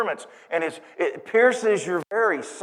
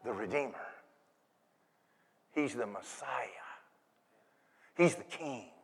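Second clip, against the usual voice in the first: hushed, low and solemn; low, quiet awe; reverent announcement; 7 semitones lower, 13 dB quieter than usual. Acted. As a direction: let each title drop softly. Angel solemnly announces the child's titles.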